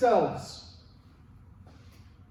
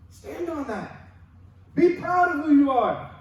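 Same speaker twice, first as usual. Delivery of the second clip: emphatic exhortation; 6 semitones higher, 4 dB louder than usual. Real, not acted. Preacher urging the congregation.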